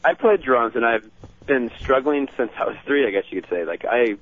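loose, trailing stoner-like ramble; hazy, meandering stoned talk; stoned-sounding. Real, not acted. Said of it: "you sound like you're stoned".

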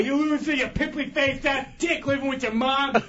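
heated string of insults; ranting. Real, not acted. Mocking Mad Max's life, ranting. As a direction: pile insult on insult. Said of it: "All that ranting and raving".

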